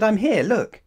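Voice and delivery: very high, loud protest; high insistent call; exasperated child. Acted. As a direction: shout for attention like a frustrated child. Nat insists he's visible.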